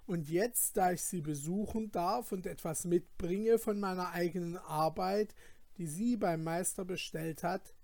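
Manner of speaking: eager protest. Acted. Felix refuses to surrender his godmother's jewelry, eager. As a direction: defend your godmother's jewels with passion. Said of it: "entgegnete Felix sehr eifrig".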